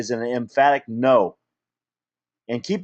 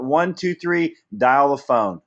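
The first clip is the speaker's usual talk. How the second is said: counting it out; slower than usual. Shown as a demonstration. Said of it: "You know what?".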